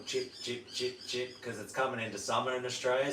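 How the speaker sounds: short, separate imitated chirps; evenly repeated little chip sounds; baby bird chirp. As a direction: mimic a little chick chipping. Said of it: "chip is the baby".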